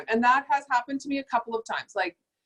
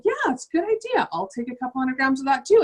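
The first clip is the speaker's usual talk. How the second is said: customer saying yes; 4 semitones higher than usual. Retold or imitated. Customer accepting offer.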